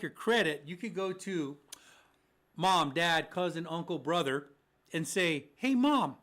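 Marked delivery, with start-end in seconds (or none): 5.6-6.2 calling to Mom. Acted. Grown child calling mom for a favour.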